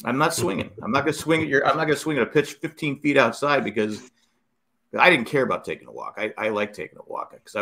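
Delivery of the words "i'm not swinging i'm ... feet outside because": higher-pitched, mildly indignant comeback; retold defiant retort. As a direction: argue back at a heckler, recounting it. Acted retort to heckling teammate.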